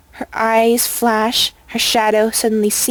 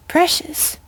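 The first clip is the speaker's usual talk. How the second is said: worried; 7 semitones higher than usual. A narrator's reading. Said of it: "with obvious worry in her voice".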